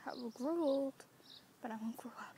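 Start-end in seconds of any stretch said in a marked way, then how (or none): 1.6-2.4 whispered. Real, not acted. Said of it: "talking really, really quietly".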